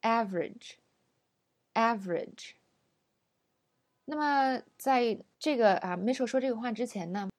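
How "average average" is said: average slowly as AAAV-rij; stretched first syllable in a two-syllable average; long stressed syllable. Shown as a demonstration. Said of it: "我们要把重音拉长".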